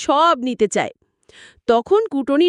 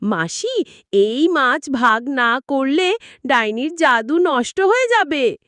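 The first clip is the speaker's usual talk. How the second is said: sweet smile. Acted. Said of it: "মিষ্টি হেসে বলল".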